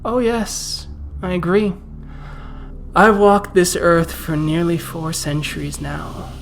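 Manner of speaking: put-on old vampire, cold and contemptuous; menacing vampire. GM voices Nicholas.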